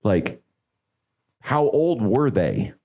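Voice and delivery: slow, drawn-out condolence; slow sympathetic. Retold or imitated. Friend hearing of a death, slow sincere sympathy. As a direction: take your time, sound truly sorry. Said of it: "Oh, man".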